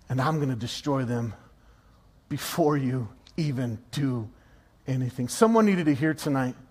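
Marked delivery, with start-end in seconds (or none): 0.1-5.3 low, soft, deliberate vow; hushed, certain threat as God; quiet resolve. Acted. Voices God's quiet vow to destroy.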